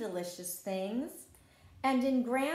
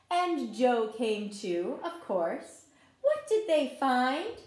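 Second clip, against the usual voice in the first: story narration; 3 dB louder than usual. A narrator's reading. Teacher reading a garden story to children, gentle read-aloud. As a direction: tell the story like a picture book at circle time. Reads picture book to children.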